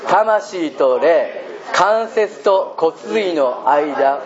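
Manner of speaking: slow measured scripture recital; slow unison Bible recitation; congregational recitation. Shown as a demonstration. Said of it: "暗唱しましょう、皆さんで。".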